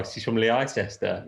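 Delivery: "Leicester" said as "Lie-sester"; joke mispronunciation. Pretend. Host teasing about where she's from, "Leicester" as "Lie-sester". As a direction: sound out "Leicester" wrongly as lie-SES-ter. Jokey misreading of Leicester's spelling.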